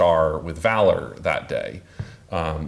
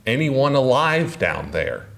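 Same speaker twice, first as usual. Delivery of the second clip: raised, higher-pitched calling out; mock shout, pitched up; retold shout; 6 semitones higher than usual. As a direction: call down to someone below, mildly. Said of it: "Muller shouting".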